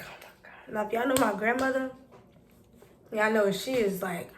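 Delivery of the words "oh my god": breathless, voiceless oh my God; exasperated groan. Retold or imitated. Hearing grandma demand the police, dreading it under her breath. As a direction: sigh it out, dreading it.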